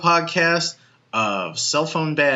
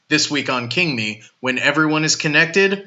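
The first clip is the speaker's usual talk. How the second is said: horror trailer voice. Acted. Movie trailer intro for episode.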